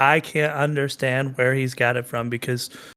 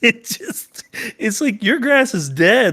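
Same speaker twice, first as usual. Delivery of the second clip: higher, quicker mocking rant; mock dad rant; 7 semitones higher, 3 dB louder than usual. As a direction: mimic the grumbling dad, hammed-up. Mocking the dad's complaint.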